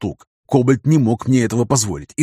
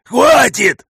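even higher desperate shriek; panicked wail, higher; 12 semitones higher, 6 dB louder than usual. Acted. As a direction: beg louder in rising panic. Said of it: "завопил он".

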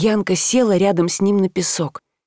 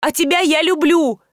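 выкрик; 6 semitones higher than usual. A narrator's reading. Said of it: "кричал и кричал Таль".

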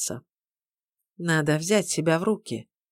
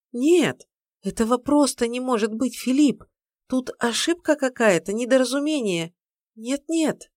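distressed denial; 7 semitones higher than usual. Acted. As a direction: plead that it can't be true. Katya protests in distress.

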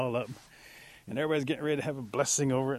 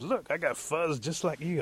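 higher, drawn-out little plea; eager pleading; 5 semitones higher, slower than usual. Acted. Little fuzzy creature to the animals, eagerly proving it belongs. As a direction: plead your case, stretching the words.

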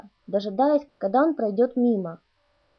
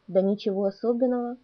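calm. Acted. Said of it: "спокойно сказал вампир".

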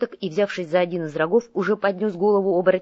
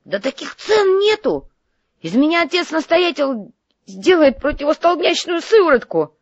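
high, loud, slow indignant cry; outraged protest; 11 semitones higher, 8 dB louder than usual. A narrator's reading. The monk refusing the high price, loud outraged protest. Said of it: "задохнулся от возмущения".

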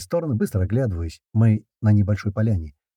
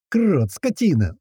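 high, drawn-out angry cry; angry yell; 8 semitones higher, slower than usual. A narrator's reading. Shaken passenger to driver Крот after the crash, yelling angrily. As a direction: stretch out the curse at the driver. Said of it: "заорал кто-то в салоне".

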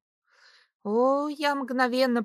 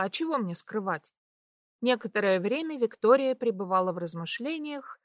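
ordinary delivery

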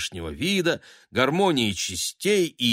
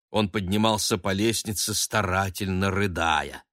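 usual speaking voice

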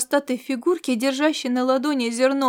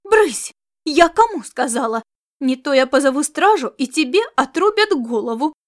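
loud furious shout; queen shrieking threats, louder; angry threat; 2 semitones higher, 7 dB louder than usual. Acted. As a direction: bellow the threat. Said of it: "пригрозила она".

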